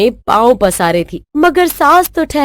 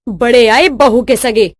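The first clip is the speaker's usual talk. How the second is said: mildly irate sarcasm; acted huffy outburst; angry retort; 2 semitones higher than usual. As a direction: snap back at a nagging husband. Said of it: "सास गुस्से से पैर पटकते हुए".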